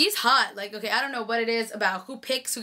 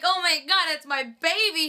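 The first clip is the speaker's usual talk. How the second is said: higher, thrilled Damon over his car; happy Damon; 5 semitones higher than usual. Retold or imitated. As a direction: gush over the car like it's his baby. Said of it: "And he's like".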